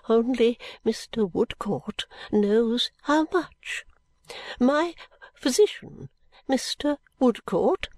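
put-on high, slow fussy old lady; an old woman introducing her doctor; fluttery old lady. Miss Flite presents her physician, high and slow.

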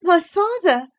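put-on high childish voice, startled; perplexed child. A narrator's reading. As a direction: cry it out as a bewildered boy. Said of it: "he cried in strange perplexity".

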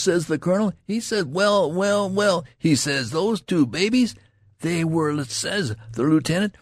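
high-pitched rustic storyteller mimicking officers; eager country private playing pompous colonel and lieutenant; excited soldier tale-bearer. A narrator's reading. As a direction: relay praise with mounting excitement.

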